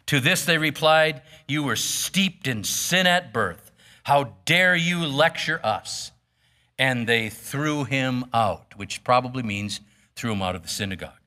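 measured Bible reading, quotes lightly voiced; steady pulpit reading voice; scripture reading. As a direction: read the passage to the congregation. Reads scripture aloud.

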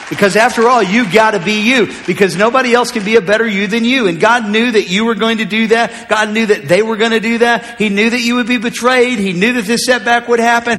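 insistent preacher, pitch lifted; building preaching. Real, not acted. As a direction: press each point on the congregation.

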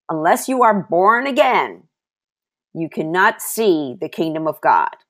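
preacher's ringing repeat; preaching emphasis. Acted. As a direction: proclaim it to the room.

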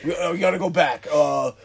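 mildly exasperated, acting out being lost; hammed-up fretting behind the wheel; frustrated driver. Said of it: "the most frustrated one".

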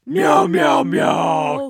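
very high meowing; cat meow. Acted. Cat sound effect bit.

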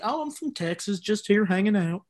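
put-on light Texas accent; casual Texan accent, playing the local boy. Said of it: "do, like, a Texas accent".

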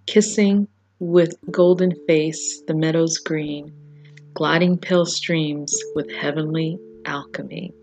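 sonnet read with a grand, stately opening; measured poetry recital; poem reading. Acted. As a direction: recite the sonnet like a reverent performer. Reads Shakespeare sonnet aloud.

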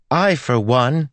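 high, loud proclamation. A narrator's reading. Girl makes a scene in the cathedral, very loud. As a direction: announce it for the whole room to hear. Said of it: "Melody said very loudly".

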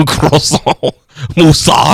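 put-on playful French-accented single words; mock French accent. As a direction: imitate a French teacher's accent. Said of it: "catch the accent".

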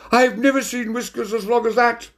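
piping up very high; high, put-on lady cat voice; Lady Wigglebottom. A narrator's reading. Lady joins in mocking the waiter, piping high. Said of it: "Lady Wigglebottom piped up".

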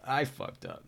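sudden high yelp of dismay; startled high curse; mock oh-crap moment. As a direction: blurt it out like you just messed up. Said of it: "I was like".

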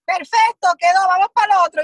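quick, loud "done, next"; brisk TV director. Retold or imitated. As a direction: rattle it off like a hurried director wrapping a take.

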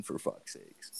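whispered aside. Real, not acted. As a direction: drop to a slow whisper for the aside. Muttered aside after heroin comparison.

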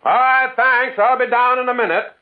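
loud high reply across the gap; calling down. Acted. Narrator calls his thanks down to the signalman, loud. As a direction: shout the thanks down the slope.

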